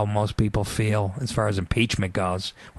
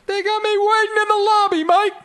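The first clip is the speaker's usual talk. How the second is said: mock Vic voice; 5 dB louder than usual. Mocking Vic's voice.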